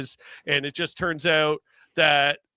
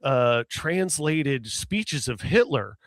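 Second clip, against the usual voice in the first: Southern accent imitation. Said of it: "Southern States maga guy".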